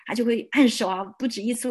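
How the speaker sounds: normal talking voice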